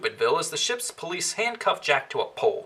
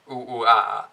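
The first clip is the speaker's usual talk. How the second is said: gorilla grunting; 7 semitones lower than usual. Acted. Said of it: "gorilla grunting".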